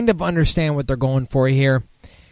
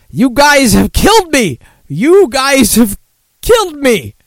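high-pitched laughing wail; 10 semitones higher, 7 dB louder than usual. Real, not acted. Drunk streamer cracks up at chat.

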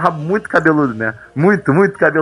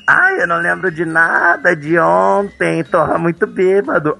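hungover friend; slower than usual. Retold or imitated. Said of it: "acordou mega bêbado e falou assim".

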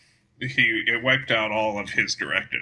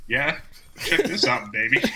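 RoboCop; 3 semitones higher than usual. Acted. Joking about RoboCop's trick shot to co-host, mock-cool RoboCop. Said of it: "He's like".

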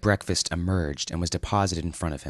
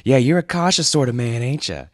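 lightly laughing, higher dude voice; half-laughing sarcastic dude; mock guffaw; 5 semitones higher, 4 dB louder than usual. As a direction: scoff at him with a chuckle. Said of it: "Julian guffawed".

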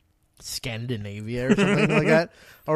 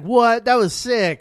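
loud, high amazed shout; excited; 9 semitones higher, 8 dB louder, slower than usual. Retold or imitated. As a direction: cheer it like a gamer. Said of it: "Like that".

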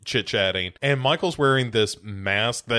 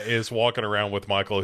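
usual speaking voice

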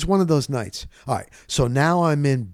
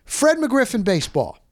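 teasing call-out; 12 semitones higher than usual. Retold or imitated. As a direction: call him out in a high playful voice. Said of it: "And I said".

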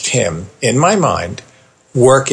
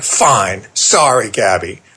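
grudging apology; 3 semitones lower, slower than usual. Retold or imitated. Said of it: "Not as warm as remor".

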